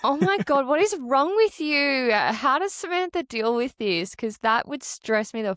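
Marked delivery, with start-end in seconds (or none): 0.1-4.1 disbelief. Real, not acted. Reacting to friend's reckless run.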